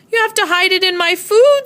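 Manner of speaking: sick friend's voice. A narrator's reading.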